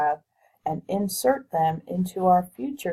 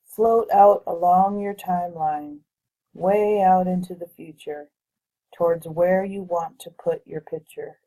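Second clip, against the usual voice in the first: measured meditation guide with long pauses between phrases; guided visualization. Real, not acted. Guiding listeners to float above their future timeline, guided visualization voice. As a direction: lead them through it unhurriedly, pausing to let them picture it.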